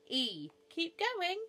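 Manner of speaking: high, loud, slow urging; eager encouragement. Acted. Noah urges the bee on.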